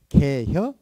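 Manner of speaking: terse Chungcheong ask; Chungcheong dialect. Shown as a demonstration. 충청도 사투리로 짧게. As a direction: clip it short like a Chungcheong local. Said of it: "충청도 말이 의외로 짧아요".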